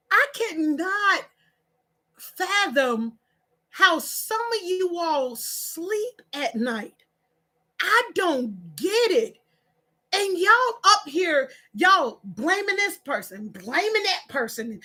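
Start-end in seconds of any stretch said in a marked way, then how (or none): 0.1-9.4 slow, spaced-out disbelief; baffled disapproval. Real, not acted. Baffled at how viewers sleep, slow disbelief. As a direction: pause between phrases, stretching the words.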